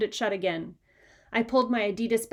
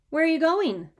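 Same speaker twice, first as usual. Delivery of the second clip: mom's question; 7 semitones higher, 5 dB louder than usual. A narrator's reading. Mother asks the runaway.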